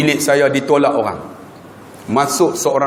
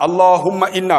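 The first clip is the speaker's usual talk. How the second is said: recitation demo; 3 semitones higher than usual. Shown as a demonstration. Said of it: "macam ustaz baca tadi".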